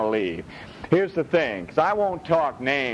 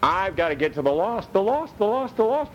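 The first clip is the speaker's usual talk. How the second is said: mock frantic zeal; 7 semitones higher than usual. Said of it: "How could I lead the lost?".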